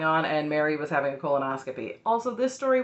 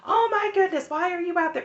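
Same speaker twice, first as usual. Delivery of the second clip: high, shocked fan voice; playful mock alarm, much higher; imitating a worried fan; 12 semitones higher, 3 dB louder than usual. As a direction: mimic a gasping, concerned viewer. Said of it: "before somebody's like".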